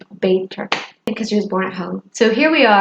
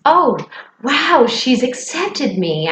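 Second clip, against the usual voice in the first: raised, slow, glad inner voice; relieved delight; 5 semitones higher, slower than usual. Retold or imitated. Kate senses her old friend accepts her, glad relief. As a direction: relief at being accepted again. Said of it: "I could sense".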